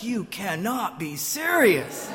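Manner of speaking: slow, incredulous mock rebuke; disbelieving wife. Wife looking at her oblivious husband, mock-incredulous. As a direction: imitate an unimpressed wife, drawn out slowly. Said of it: "my wife would look at me like".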